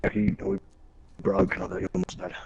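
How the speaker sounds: high, quick mocking officer. Mimicking officers, pitched up.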